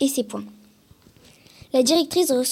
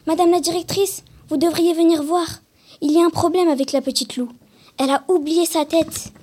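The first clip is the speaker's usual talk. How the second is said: panicked; 5 semitones higher, 3 dB louder than usual. Acted. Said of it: "un animateur paniqué".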